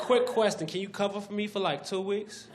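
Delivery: lightly voiced pushy friend; syphilis voice.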